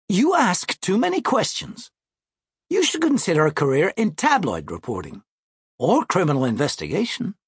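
lightly voiced, self-assured seventh grader; confident schoolboy brother. Brother brushing off his sister's questions, lightly voiced confident boy. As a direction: open high, then settle into lofty advice.

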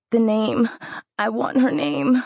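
high, loud insistent demand. Acted. Dying girl insists on name.

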